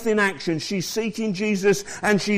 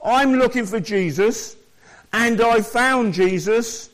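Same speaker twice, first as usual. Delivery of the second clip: raised, rising joyful claim; joyful declaration; 5 semitones higher, 4 dB louder than usual. Pretend. Preacher voicing the believer's joyful answer, raised and bright. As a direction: proclaim finding him with joy. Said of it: "That's what Jesus wants".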